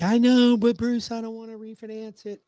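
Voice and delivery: client's high protest. Retold or imitated. Client Judy pushing back on Bruce, high loud protest. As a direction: voice Judy's objection up high and loud.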